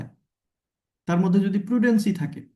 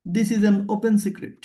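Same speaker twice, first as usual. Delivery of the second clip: slow example; much slower than usual. Shown as a demonstration. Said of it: "open আবার secret".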